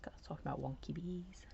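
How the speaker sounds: soft whispered aside; whispering. Real, not acted. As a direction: mutter it under your breath. Muttered aside during crafting.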